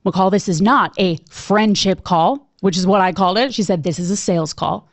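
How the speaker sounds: a hint of a no-nonsense coach setting her straight; stern Jenny. Jenny voiced sternly in the story.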